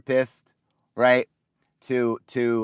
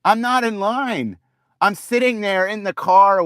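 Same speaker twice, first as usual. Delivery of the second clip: higher and louder, fed-up protest; exasperated outburst; 8 semitones higher, 5 dB louder than usual. Real, not acted. Caller fed up with the phone queue, exasperated and louder. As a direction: push back at the absurd message, incredulous.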